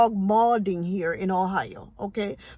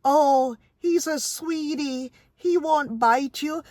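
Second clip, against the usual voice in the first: higher, louder, sugary mock reassurance; mock dog owner; 4 semitones higher, 3 dB louder, slower than usual. Mocking careless owners at the park in a higher put-on voice. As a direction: lightly mimic a doting owner brushing off worry. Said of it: "you hear them say".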